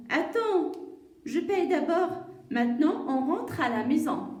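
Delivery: lightly acted, projected instruction; mother's reply. Mum telling child to wait, lightly acted firm reply.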